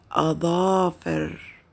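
أظافر whispered slowly, the ظ kept clear; whispered model. Shown as a demonstration. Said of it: "لاحظوا أيضًا في وسط الكلمة".

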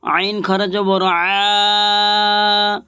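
each letter named, then খারা জবর and the long vowel with a pause; letter recitation drill. Shown as a demonstration. Teacher drilling students on Arabic letters, measured recitation. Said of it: "ঠিক এইভাবে পড়বেন".

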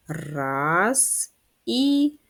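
rhythmic count for writing in the air; counting the strokes. Shown as a demonstration. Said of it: "Пишемо я на екрані, ви в повітрі". (рахуйте ритмічно, пишучи в повітрі)

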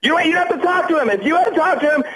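angry. Real, not acted. Angry at girlfriend laughing.

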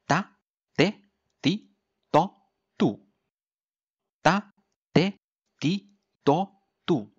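da, de, di, do as short separate bursts; crisp d drill. Shown as a demonstration. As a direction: pop the d in da, de, di, do off the tongue tip. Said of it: "de的发音清脆利落". (清脆利落地逐个读da、de、di、do)

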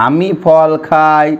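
very slow, word by word, for writing down; slow dictation. Shown as a demonstration. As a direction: spell it out slowly so they can write. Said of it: "বাক্যগুলো আমরা এখানে লিখে নিই". (ধীরে ধীরে লেখানোর মতো করে বলা)

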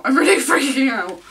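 loud, high, laughing excitement; freaking out. Real, not acted. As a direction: burst out laughing, overwhelmed. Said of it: "I'm, like, like, freaking out".

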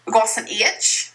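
a light, hammed-up English accent; just a hint of posh English for fun; mock Kate Winslet. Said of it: "Did I sound like Kate Winslet?".

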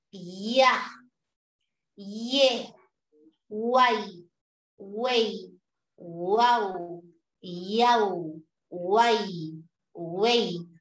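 each syllable said alone as one beat; slow list of glides; drilled syllables. Shown as a demonstration. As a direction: tap out each syllable cleanly. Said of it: "Los diptongos tampoco se separan".

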